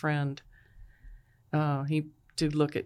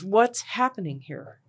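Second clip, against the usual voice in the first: higher imitation of alarmed questioning; startled demand; 4 semitones higher, 4 dB louder than usual. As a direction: demand an answer, pitch raised. Startled brother asks, retold more sharply.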